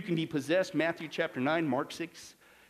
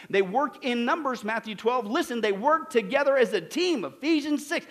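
raised, driving sermon delivery; forceful preaching; 4 semitones higher, 3 dB louder than usual. Acted. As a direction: hammer each point to the congregation.

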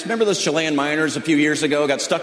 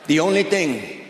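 imitated trapped miner; 4 dB quieter than usual. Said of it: "Do you think they're down that mine going".

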